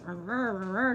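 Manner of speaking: mock morning grumble in nonsense syllables; imitated grumbling. Friend describing her mornings before coffee, imitated grumbling. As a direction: grumble wordlessly, imitating a grouch. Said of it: "and I grumble".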